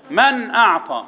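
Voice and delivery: crisp noon in من before اعطى; intoned, with من cleanly separated from اعطى; clear izhar. Shown as a demonstration. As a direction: say the noon of من plainly, without lingering, then اعطى. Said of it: "الاظهار".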